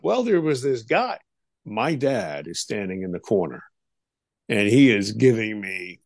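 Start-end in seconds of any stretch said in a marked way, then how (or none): 0.0-1.2 higher-pitched retold blurt; eager mock-child outburst. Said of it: "I just start to blurt out".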